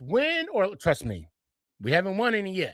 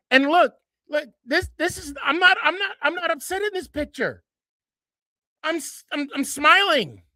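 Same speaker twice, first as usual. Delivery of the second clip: laughing; 10 semitones higher than usual. Real, not acted. Laughs at his own photo.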